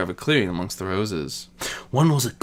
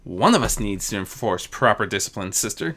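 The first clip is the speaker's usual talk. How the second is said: chiding; 4 semitones lower, 3 dB quieter than usual. Acted. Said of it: "Nocturnal chided".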